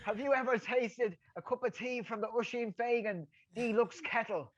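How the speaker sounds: high, eager advert voice; high hammed-up sales patter; mock sales pitch. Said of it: "the speaker's pitch".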